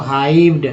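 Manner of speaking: "हाइव्ड" with an "आई" glide and final "ड". Shown as a demonstration. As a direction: say "हाइव्ड" as HAIVD for learners. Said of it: "आई का उच्चारण आई के रूप में हुआ". ("हाइव्ड" में साफ़ "आई", अंत में "ड")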